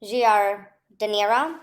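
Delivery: speaking past a burning mouth; half-whispered with spicy mouth; mouth full of hot food. Real, not acted. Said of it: "my mouth is burning".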